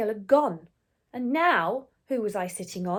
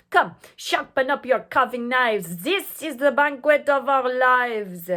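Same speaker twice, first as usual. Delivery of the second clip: louder, eager mob; shouting mob; 2 semitones higher, 6 dB louder than usual. Acted. The French mob plans the feast, loud and eager. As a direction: gloat over the feast. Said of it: "The French were shouting".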